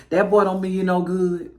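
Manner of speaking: low, wary daddy voice; lightly voiced suspicious father; disapproving daddy. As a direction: mutedly imitate a daddy distrusting the boy. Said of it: "the daddy be, like, side-eyeing the boy".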